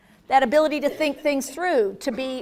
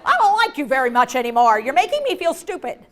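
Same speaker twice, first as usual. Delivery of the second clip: offended; 3 dB louder than usual. Acted. Offended person answers quizzing relative.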